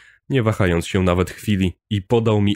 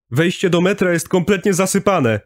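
shouting from afar; 10 semitones higher than usual. A narrator's reading. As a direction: call it out across the platform. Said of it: "pokrzykiwał z oddali pierwszy chłopak". (okrzyk z oddali)

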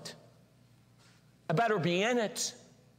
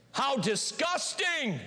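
laughing disgust; 5 semitones higher, slower than usual. Retold or imitated. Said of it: "then they played it back".

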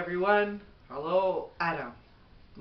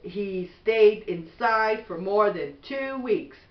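gentle, even bedtime storybook read; reading to children; 3 dB louder than usual. Acted. Mother reading a bedtime book to her son, gentle storybook voice.

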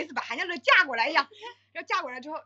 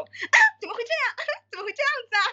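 giggly disbelief; 9 semitones higher, 4 dB louder, much faster than usual. Retold or imitated. Imitating friends' giggling exclaim.

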